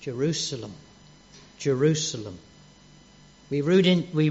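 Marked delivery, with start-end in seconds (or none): 0.0-2.4 tender lament. Shown as a demonstration. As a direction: call the city gently, full of longing. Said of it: "This was".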